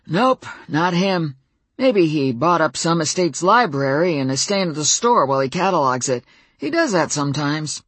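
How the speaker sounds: a hint of a folksy old cowboy; easygoing old neighbor, lightly voiced; lightly voiced old man. The old Fae neighbor speaks.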